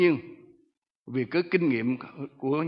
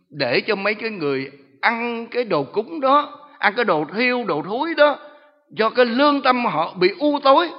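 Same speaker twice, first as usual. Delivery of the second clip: high, loud gloating demon voice; demon boasting; 8 semitones higher, 8 dB louder than usual. Retold or imitated. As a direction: gloat over the rotten offerings. Demon explains its purpose. (giọng ma quỷ khoe khoang lớn tiếng)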